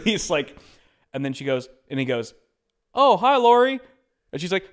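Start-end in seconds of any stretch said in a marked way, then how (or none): 2.9-3.8 high, loud folksy hello; cheerful small-town old man; the host greeting the old neighbour, folksy and loud. Retold or imitated. Host greeting lady on phone.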